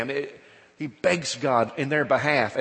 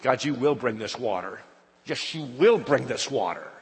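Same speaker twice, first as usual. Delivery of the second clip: defiant insistence. Acted. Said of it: "as if to say".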